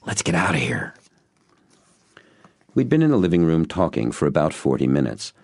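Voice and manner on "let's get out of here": breathy whisper. A narrator's reading. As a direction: whisper it urgently.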